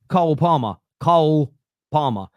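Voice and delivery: "Cole Palmer" set out carefully, broad Southern o in Cole; demonstrated pronunciation. Shown as a demonstration. Host clearing up mixed-up sounds, "Cole Palmer" carefully in his accent. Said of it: "mixing up the sounds".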